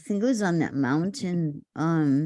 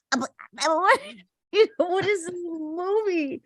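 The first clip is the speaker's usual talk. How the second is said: nervous; 10 semitones higher than usual. Retold or imitated. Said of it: "I said".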